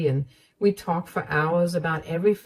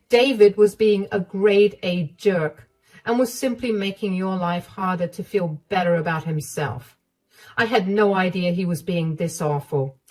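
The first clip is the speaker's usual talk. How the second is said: caring mother-in-law; 3 semitones higher, 3 dB louder than usual. Acted. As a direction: comfort her like a worried mom.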